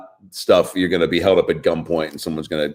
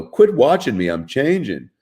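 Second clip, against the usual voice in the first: lightly voiced bashful traffic light; little traffic light voice; 5 semitones higher than usual. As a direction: play the traffic light as a shy cartoon. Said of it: "I do a little voice for it".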